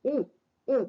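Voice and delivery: "उ" said alone twice with both lips rounded; teacher's isolated lip-rounded "उ"; labial vowel demo. Shown as a demonstration. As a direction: demonstrate "उ" as a short oo, pausing between. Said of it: "दो ओठों का उपयोग हो जाता है".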